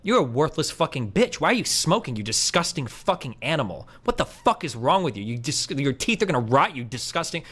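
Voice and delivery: abusive berating. Shown as a demonstration. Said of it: "That would be, like, abusive".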